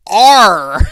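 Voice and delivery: loud pirate Arr; pirate growl. Pretend. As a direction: bark it like a pirate. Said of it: "I guess I'm a pirate?".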